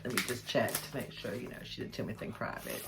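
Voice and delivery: a soft half-whisper checking the letter; hushed, private aside. Real, not acted. Reading a private note, she drops to a whisper. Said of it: "This might be a private moment".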